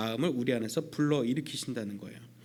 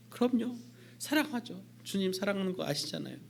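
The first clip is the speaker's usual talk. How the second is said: Peter eager; 4 semitones higher, 4 dB quieter than usual. Acted. Peter answering Jesus.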